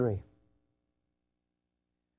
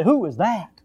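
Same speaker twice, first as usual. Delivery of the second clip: mock confused child; 7 semitones higher, 6 dB louder than usual. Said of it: "they say".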